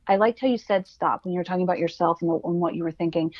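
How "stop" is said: a kind self-correction, "Stop" said low; gentle stop. Retold or imitated. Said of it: "It's a gentle stop".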